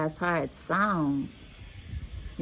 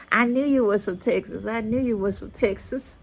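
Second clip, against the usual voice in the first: higher-pitched, insistent mock exclamation; mimicked excited recognition; 6 semitones higher, 3 dB louder than usual. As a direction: imitate a stranger thrilled at guessing right. Quoting people recognizing her accent.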